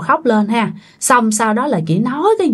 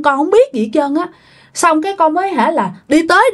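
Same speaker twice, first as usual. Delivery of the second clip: higher, strained, tearful pleading; crying dead husband's voice; 5 semitones higher than usual. Retold or imitated. Dead husband tells relatives of the crash, crying high and strained. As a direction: imitate a dead man crying through the possessed woman. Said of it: "nói cũng khó khăn lắm".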